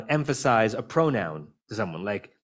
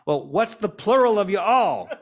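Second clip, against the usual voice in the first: high, loud heckling call from the crowd; a guest's high, loud heckle at a wedding; retold shout; 10 semitones higher, 6 dB louder, slower than usual. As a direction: shout the question up at the speaker. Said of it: "someone shouted out".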